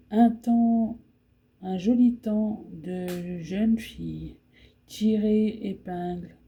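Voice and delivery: spring poem recited line by line, some lines slowed; poem reading. Acted. Reading a spring poem to her viewers, as a recitation. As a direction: read it like a recitation, letting the refrain return.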